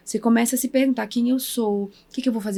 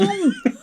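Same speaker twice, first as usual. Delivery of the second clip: laughing half-crying; 11 semitones higher than usual. Real, not acted. Laughing at own refusal.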